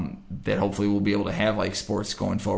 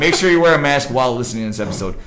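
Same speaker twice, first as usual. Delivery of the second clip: laughing; 4 semitones higher, 6 dB louder, faster than usual. Real, not acted. Laughing joke sign-off.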